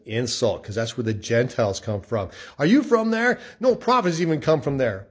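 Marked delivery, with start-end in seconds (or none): 2.6-5.1 scoffing Pharisees. Retold or imitated. Pharisees mocking Nicodemus.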